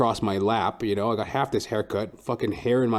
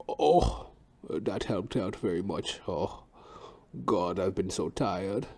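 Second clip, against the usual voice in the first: put-on old hairdresser sigh; 3 semitones lower, 6 dB quieter, slower than usual. Barber after his snack, quiet weary sigh. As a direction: sigh it out, relieved but weary. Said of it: "he finished his granola bar".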